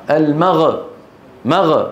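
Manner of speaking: المغ with غ released in a bounce; bouncing Ghain error. Shown as a demonstration. Teacher showing what is not allowed, qalqala on غ. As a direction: bounce the غ at the end of مغ. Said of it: "ما يصح".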